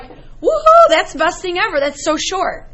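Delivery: delighted cheer. Pretend. Student thrilled by the math shortcut, whooping high and laughing. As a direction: cheer like a kid who just got the shortcut. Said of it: "You would be like".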